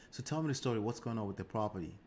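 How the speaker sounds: relaxed, easy voice, no pressure at all; calm and collected. Shown as a demonstration. Agent calmly asks the seller about the property, calm and collected. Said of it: "You're calm, cool, and collected".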